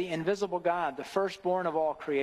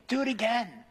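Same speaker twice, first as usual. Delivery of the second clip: God speaking to the moon; 6 semitones higher than usual. Retold or imitated. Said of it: "and every evening".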